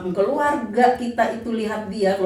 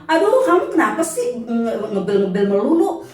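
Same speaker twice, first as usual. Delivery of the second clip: mock scolding; 3 semitones higher, 4 dB louder than usual. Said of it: "aku ngomelin dia melulu".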